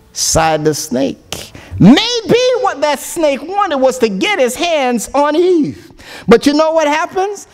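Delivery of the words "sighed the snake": dramatic song recitation. Acted. Preacher reciting the snake song to his congregation, dramatic storytelling. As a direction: recite the verses like a storyteller from the pulpit.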